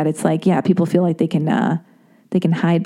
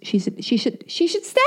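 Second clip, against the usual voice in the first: giggling; 13 semitones higher, 3 dB quieter than usual. Real, not acted. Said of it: "I'm, like, stuttering".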